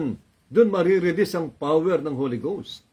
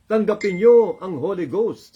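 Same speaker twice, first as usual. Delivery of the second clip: slow, louder proclamation of the command; commanding Jesus quote; 2 semitones higher, 5 dB louder than usual. Acted. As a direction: declare it like a command from heaven. Jesus' command retold to disciples. (malakas at mabagal na utos)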